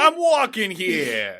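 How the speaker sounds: slow, loud, laughing I'm walking here; mock New Yorker. Co-host chiming in as the kid, laughing, hammed-up protest. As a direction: ham up a street tough's protest.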